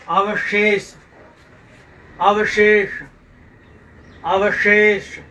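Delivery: अवशेष firmly, with a long शे; careful pronunciation. Shown as a demonstration. Teacher drilling अवशेष for pupils, firm careful pronunciation. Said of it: "इन शब्दों को शुद्ध उच्चारण कीजिए".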